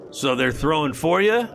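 slow, suspicious hobgoblin question; gravelly sly hobgoblin. Acted. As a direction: ask it slowly and suspiciously. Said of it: "the hobgoblin says".

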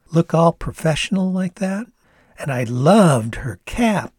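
put-on gushing Canadian young woman; Canadian accent. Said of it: "Gwendolyn chuckled".

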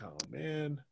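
weary, reluctant mutter; dreading it. Retold or imitated. Wrestler to himself as the music hits, dreading it. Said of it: "that facial expression was like".

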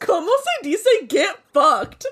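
slow, giggling through the Spanish; laughing quote. Retold or imitated. Repeating her friend's funny line back, slow and laughing. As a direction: savor it slowly while cracking up.

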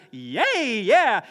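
loud playful cheer; mock cheer. Listener hearing they found favor with God, loud mock cheer. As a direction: cheer like you just won. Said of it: "you'd be like".

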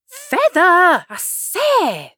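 high, loud insistent order; sharp call. Acted. Sheep insisting again that Alice feather the oars.

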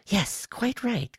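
high, slow, unbothered alien; casual reptile. A narrator's reading. Quiss answers angry Woe, casual and high-pitched. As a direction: agree casually in a high creature voice. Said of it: "Quiss said casually".

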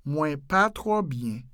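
"Mwen pa twò byen" slowly and evenly; slowed-down model. Shown as a demonstration. Teacher repeating the Creole phrase, slowed down.

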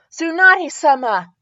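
high, loud cheerful call; happy chirp. A narrator's reading. Pupil greeting her master at work, happy chirp. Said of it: "Sakura chirped happily".

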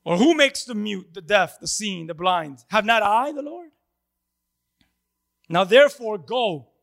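a hint of a stern divine voice; commanding Lord. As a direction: declare it with authority. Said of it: "so the Lord says to him".

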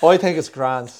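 amateur Irish with a laugh in it; Irish accent. Shown as a demonstration. Comedian proving his accent to host, laughing Irish accent. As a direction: show off your put-on Irish. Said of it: "I have an awful Irish accent".

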